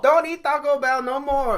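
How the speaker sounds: put-on loud, high Asian-accented scolding; ornery mock Asian accent. Hospital staffer scolding patient over lunch, mock Asian accent. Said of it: "she is ornery as hell".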